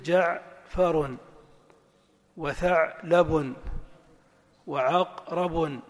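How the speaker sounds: جعفر split slowly as ja'...farun; syllable-by-syllable. Shown as a demonstration. Teacher gives example words, slowly split by syllable. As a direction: break جعفر وثعلب وعقرب after each first closed syllable. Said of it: "حاول تعتمد دائمًا على التنغيم الصوتي".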